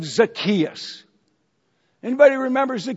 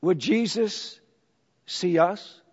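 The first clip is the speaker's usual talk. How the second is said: timid whisper; 4 semitones lower, 7 dB quieter than usual. Retold or imitated. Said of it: "What they might have said is".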